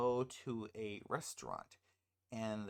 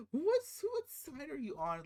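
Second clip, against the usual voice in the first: exasperated; 13 semitones higher, 5 dB louder than usual. Real, not acted. Exasperated again at the husband.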